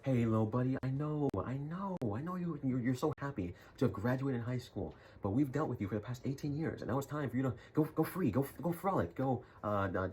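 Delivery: lightly voiced parent easing their kid out; mock parent voice. Parents telling their graduate to leave, lightly voiced mock parent.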